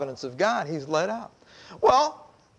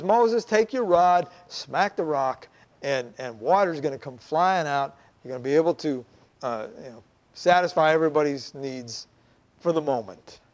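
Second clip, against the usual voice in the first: voice of God; 5 semitones lower than usual. Acted. God calmly tells Moses to strike the rock, low voice. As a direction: speak low and steady like God instructing. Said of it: "And so God says".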